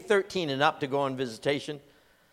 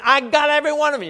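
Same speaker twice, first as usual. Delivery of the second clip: high, loud, fast war cry; mock battle shout; 13 semitones higher, 8 dB louder, faster than usual. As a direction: yell it like a soldier in a firefight. Rolling on ground, mock shooting.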